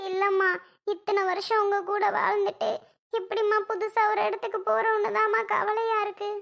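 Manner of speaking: a daughter's weepy unease; tearful worry. Acted. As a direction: fret through held-back tears. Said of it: "எதுக்கு அமுதா இப்ப அழுகுற?".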